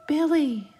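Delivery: high, drawn-out calling voice; ghostly call. A narrator's reading. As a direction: call the name out, luring and eerie. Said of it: "the voice spoke again".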